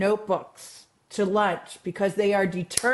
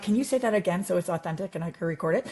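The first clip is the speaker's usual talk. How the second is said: laughing aside; 2 semitones lower, faster than usual. Retold or imitated. Joking request to kids.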